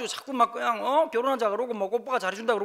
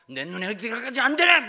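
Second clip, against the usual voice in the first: stern father-in-law; 2 semitones higher, 6 dB louder than usual. Pretend. Imagined father-in-law refusing the suitor.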